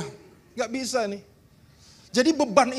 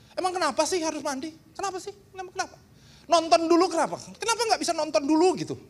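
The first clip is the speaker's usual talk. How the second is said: whiny protest; 6 semitones higher, faster than usual. Retold or imitated. Retelling his young lazy self.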